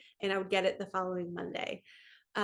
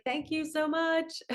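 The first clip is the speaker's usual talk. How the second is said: high, slow, gushing thank you; overjoyed thanks; 8 semitones higher, slower than usual. Retold or imitated. Thanking the inspector for the money, high slow gush. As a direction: stretch it out like you can't believe your luck. Inspector grants the full amount.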